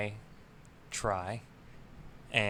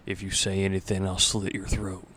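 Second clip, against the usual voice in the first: menacing threat; 4 dB louder than usual. Acted. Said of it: "in the most menacing voice".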